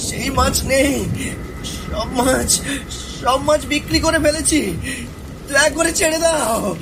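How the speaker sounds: desperate plea. Acted. Son begs the ghoul, frantic and afraid. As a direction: beg to be let go.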